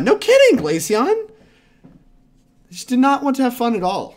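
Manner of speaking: very high, loud outcry; mock outrage. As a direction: wail it, slow and big.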